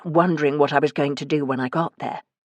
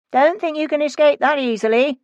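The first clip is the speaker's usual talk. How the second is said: calling after; 10 semitones higher, 3 dB louder than usual. A narrator's reading. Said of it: "I called after him".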